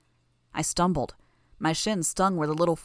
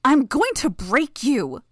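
snarling; 8 semitones higher, 8 dB louder, slower than usual. Acted. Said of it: "Sophia snarled the words between her grunts".

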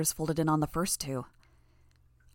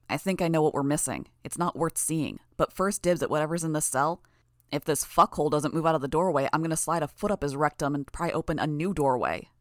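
angry thug; 3 dB louder than usual. Acted. Impatient thug threatens hostage.

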